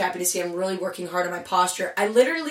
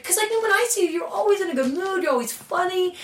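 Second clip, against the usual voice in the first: imitating Gina; 10 semitones higher than usual. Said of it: "she's like".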